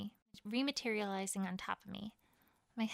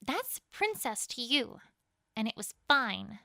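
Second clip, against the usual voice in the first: slow, clipped correction, then a louder spat retort; spat in anger; 5 dB louder, slower than usual. Acted. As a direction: correct him coldly, then spit the last words. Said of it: "I spat in anger and disgust".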